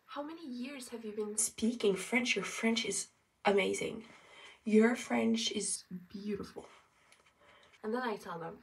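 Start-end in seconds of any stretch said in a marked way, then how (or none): 0.1-6.7 gushing mock compliment, getting louder; imitated amazement. People in France praising her French, imitated amazement. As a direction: play an impressed admirer, building in volume.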